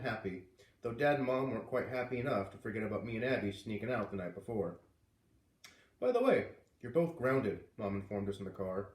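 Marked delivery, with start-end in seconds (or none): 6.0-7.6 stern announcement. Acted. Mom telling the kids in the car they're grounded, firm. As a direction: announce the punishment firmly.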